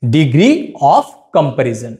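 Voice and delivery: very slow, each word stretched; slow dictation. Shown as a demonstration. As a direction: announce the term slowly for students to write. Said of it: "এ হলো আমাদের কি". (ধীরে ধীরে বলা)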